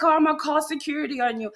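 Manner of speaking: high, fast mocking voice; mocking the employee. Manager mimicking fired employee's threat, high mocking voice. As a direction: sneer it back like a whiny threat. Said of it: "He's like".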